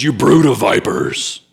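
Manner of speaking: slow, drawn-out denunciation; popping out with condemnation. Retold or imitated. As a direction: pronounce a slow, weighty accusation. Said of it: "he just pops out".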